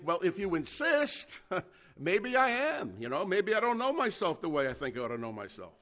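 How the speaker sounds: high, loud smug musing with a laugh; mock arrogant. Preacher imagining his own vain reply to the Lord, mock arrogant. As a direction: preen half-jokingly. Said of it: "arrogant enough to think".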